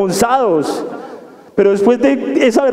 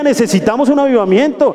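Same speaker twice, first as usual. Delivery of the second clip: brighter and quicker, a joyful call back; faster than usual. Shown as a demonstration. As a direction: proclaim "necesitamos un avivamiento" gladly and briskly. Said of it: "Dígalo con alegría".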